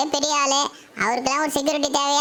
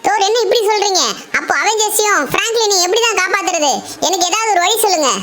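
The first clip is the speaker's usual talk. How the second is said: higher, louder pleading; desperate plea; 4 semitones higher, 6 dB louder than usual. Acted. Shinchan desperately begs Thor for a plan, loud. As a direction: beg him loudly for a way out.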